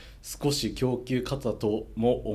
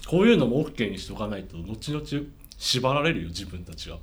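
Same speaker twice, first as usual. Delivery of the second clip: talking while eating; words round a bite of bread; mouth full. Real, not acted. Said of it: "ランチパック食べながら読むよ。". (食べながら話す声)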